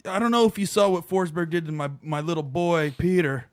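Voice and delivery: a put-on Irish dad complaining about his boy; mock Irish accent as James. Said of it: "does the Irish thing".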